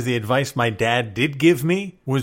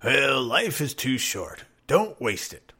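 put-on old people platitude; 4 dB quieter, slower than usual. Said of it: "all old people will tell you".

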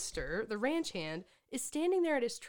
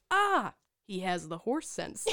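laughing imitation; slower than usual. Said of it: "the way you said it was so funny".

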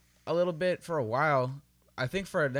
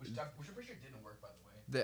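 talking while moving away from the mic; walking and talking; 13 dB quieter than usual. Real, not acted. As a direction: voice fading as he walks off. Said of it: "Don't talk while walking away".

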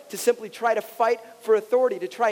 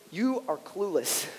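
softer, slow and gentle; kind way of saying; 2 semitones lower, 5 dB quieter, slower than usual. Shown as a demonstration. Pastor gently paraphrasing Jesus, soft and slow. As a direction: let it down easy. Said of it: "the kind way of saying".

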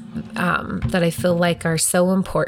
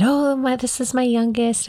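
high, startled laughing tone; surprised; 7 semitones higher than usual. Retold or imitated. Mom startled as her toddler joins her on stage, high and surprised. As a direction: caught off guard by your toddler on stage. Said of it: "So I said".

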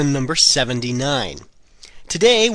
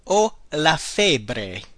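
very slow, careful model phrase; much slower than usual. Shown as a demonstration. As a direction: give every syllable room. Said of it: "The next one is".

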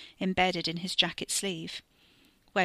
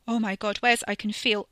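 terror; 3 semitones higher, 5 dB louder than usual. Acted. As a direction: panic breaking through. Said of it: "eyes were wide with terror".

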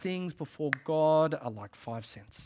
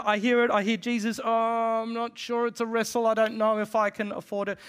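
anxious wavering; 6 semitones higher, 5 dB louder than usual. Retold or imitated. Voicing anxious listener's hesitation.

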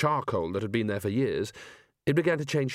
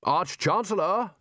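high, slow call across; 7 semitones higher, slower than usual. Acted. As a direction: call him from afar. Lecturer calling out.

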